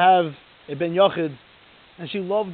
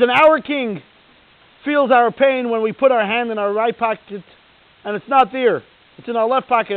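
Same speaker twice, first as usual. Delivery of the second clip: louder, elated cry of joy; joyful exclamation; 3 semitones higher, 5 dB louder than usual. Retold or imitated. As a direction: burst out with the rabbi's delight. Rabbi dancing with joy outside.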